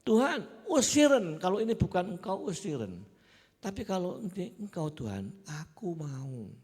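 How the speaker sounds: desperate loud plea, easing into surrender; fervent cry to God. Retold or imitated. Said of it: "aku bilang".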